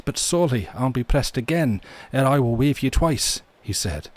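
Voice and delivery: put-on ballad narration in a Scottish accent. MacLeod folds away the fairy flag, Scottish accent. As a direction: tell the clan legend with a Scottish lilt. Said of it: "you love my Scottish accent".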